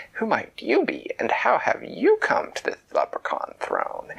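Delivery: a high, lightly voiced haughty queen; Leprechaun Queen. A narrator's reading.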